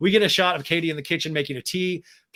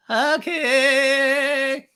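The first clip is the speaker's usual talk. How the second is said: much higher, louder stretched okay; drawn-out mock okay; 10 semitones higher, 5 dB louder than usual. Podcaster mocking Raquel agreeing to Schwartz. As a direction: sing the okay out long and giddy.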